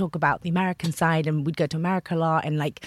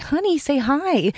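high, slow coaxing mum; mother coaxing; 9 semitones higher, 3 dB louder, slower than usual. Retold or imitated. Mum urging her shy daughter to greet a colleague. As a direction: coax a shy child to say hi. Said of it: "she'd be like".

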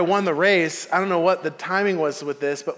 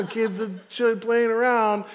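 put-on high, loud, outraged kid complaining to mom; indignant kid; 6 semitones higher, 3 dB louder, slower than usual. Boy protesting to his mom about the sign, high and indignant. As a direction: protest like a wronged fast kid.

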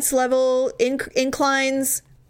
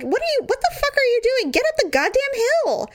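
mock self-scolding; 13 semitones higher than usual. Her brain scolding her.

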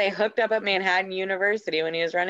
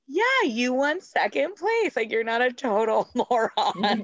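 patronizing. Retold or imitated. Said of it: "kinda patronizing with her".

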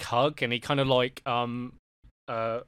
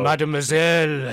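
smoky alluring; 3 semitones higher, 7 dB louder than usual. Acted. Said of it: "smoky, alluring look as he looks".

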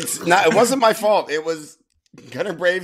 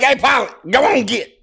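higher and louder, shooing the pilot; forceful mock order; 9 semitones higher, 6 dB louder than usual. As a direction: bark it at the pilot like a farmhand. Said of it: "He has some force behind that one too".

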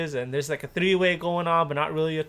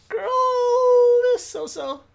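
sarcastic; 3 dB louder, much slower than usual. Real, not acted. Mocking judgement of singer.

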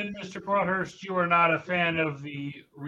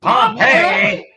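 loud, high one-word heckle; mocking yell; 9 semitones higher, 10 dB louder than usual. Real, not acted. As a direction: yell it out as a jeering correction. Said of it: "I got yelled at".

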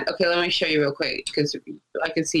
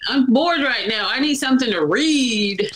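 mock bored whine; 5 semitones higher than usual. Voicing her own bored self.

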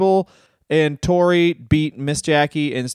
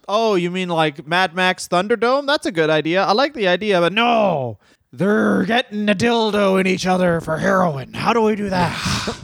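high mock booker voice; 4 semitones higher than usual. Acted booker dialogue.

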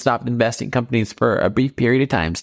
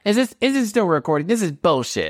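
higher, fast offended whine; outraged whine; 7 semitones higher than usual. Acted. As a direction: whine fast like a wounded ego. Seller outraged at the appraiser.

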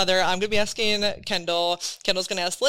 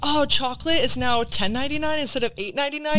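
mock shopper; 3 semitones higher than usual. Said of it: "it's like".

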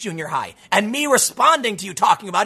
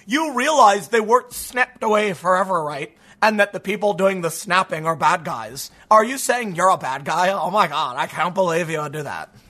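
mock outrage. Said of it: "a news article that said".

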